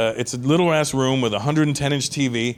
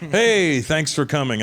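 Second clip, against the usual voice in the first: casual prince; 2 semitones higher, slower than usual. Retold or imitated. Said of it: "he's like".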